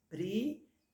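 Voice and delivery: "privilégio" em quatro emissões, com pausas; separado em sílabas. Shown as a demonstration. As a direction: escanda "privilégio": pri, vi, lé, gio. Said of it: "são quatro emissões de voz". ("privilégio" sílaba por sílaba)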